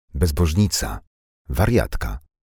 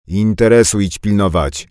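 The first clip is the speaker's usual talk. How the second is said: loud, higher, sharp retort; sharply; 6 semitones higher, 8 dB louder than usual. Acted. Carpenter telling Anka to mind her shop, sharp and loud. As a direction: cut her off hard. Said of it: "odpowiedział ostro stolarz".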